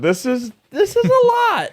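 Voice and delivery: high nervous laughing. Real, not acted. Nervous about sour candy.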